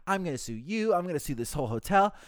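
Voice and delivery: mock an outraged caller without raising the volume; mock angry threat. Screaming caller threatening to sue the hotel, mock angry. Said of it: "he just starts screaming again".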